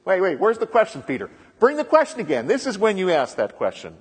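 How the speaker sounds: Jesus calling for the question, eager; Jesus urging. Retold or imitated. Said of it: "This is why Jesus says".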